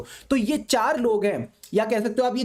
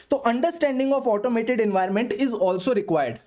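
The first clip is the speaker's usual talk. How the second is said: slow dictation; much slower than usual. Shown as a demonstration. Dictating key takeaway.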